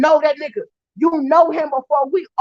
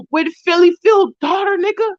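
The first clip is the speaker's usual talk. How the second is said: angry shout; 4 semitones higher than usual. Real, not acted. Shouting at Mike.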